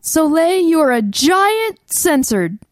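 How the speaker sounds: slow, spaced mock insult; slow deliberate insult. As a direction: say each word slowly for effect.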